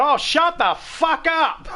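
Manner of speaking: mock the outburst with a squeaky slow yell; imitated yell. Streamer retelling Lee's outburst, high mock yell. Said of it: "when you just yelled out".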